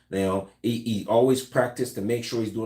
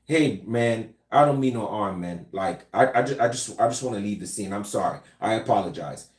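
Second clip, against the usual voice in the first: non-threatening apology; 4 semitones lower than usual. Shown as a demonstration. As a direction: back down gently, hands up. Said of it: "showing that you are non-threatening".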